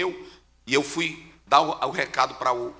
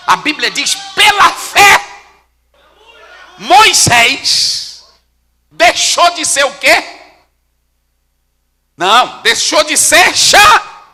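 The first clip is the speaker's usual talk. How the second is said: very high, loud pulpit shouting; fervent preacher's cry, pushed high and loud; full-force preaching; 8 semitones higher, 15 dB louder, slower than usual. Real, not acted. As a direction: shout the scripture out to the congregation.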